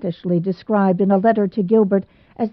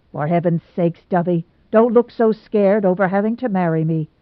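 impatient. Acted. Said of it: "he said impatiently".

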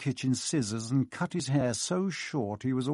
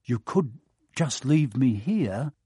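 hopeful; slower than usual. Acted. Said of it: "Harry put in hopefully".

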